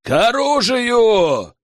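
loud, high, drawn-out alarm cry; a long, high bellow; full-throated yell. Acted. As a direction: yell it out slowly to wake the whole village. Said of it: "заорал я во всю глотку".

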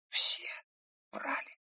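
soft, stunned half-voice; astonished whisper. A narrator's reading. Ruth realises everyone may have lied, astonished whisper. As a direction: breathe the question in shock. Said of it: "удивлённо прошептала она".

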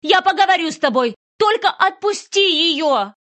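mother pleading with the kidnapper, high and loud; desperate plea. Acted. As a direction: beg him loudly to let go.

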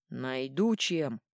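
slow, loud grim threat; dark fatherly growl. Acted. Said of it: "раздался мрачный голос".

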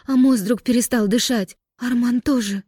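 sobbing. Acted. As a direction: blurt it out through tears. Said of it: "Амина ещё и рыдала".

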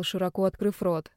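plain reading voice

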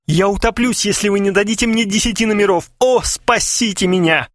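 high, hammed-up desperate wail. A narrator's reading. Customer on his knees begs clerk, mock wailing. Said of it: "завопил".

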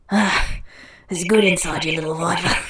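lightly acted rough Australian lover; rough Australian accent. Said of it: "in that rough Australian accent".

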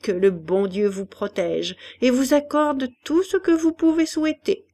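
lightly voiced old woman growing eager; animated old woman. Old woman praising the doctor to Hélène, getting animated. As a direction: warm to her praise, rising. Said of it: "s'écria la mère Fétu qui s'animait".

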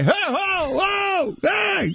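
high mock shouts, drawn out; startled hollers, played for laughs; mock yelling. Storyteller acts out his startled reaction to hosts, mock yelling. Imitates yelled interruption in story.

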